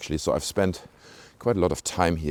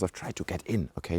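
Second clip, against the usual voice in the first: softer conspiratorial aside; hushed confession; 8 dB quieter than usual. Real, not acted. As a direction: let it slip quietly, just between us. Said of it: "Don't tell anyone".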